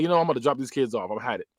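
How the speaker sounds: understated, fed-up resignation; mild mock grumble, dropping low at the end; pissed off, retold. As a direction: quote him quietly, at the end of his patience. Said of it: "so he's pissed off".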